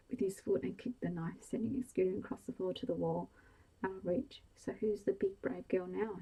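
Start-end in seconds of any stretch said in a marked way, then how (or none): 4.6-6.2 slow, gloating taunt; slow gloating jeer. Acted. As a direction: rub her nose in it. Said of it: "he taunted".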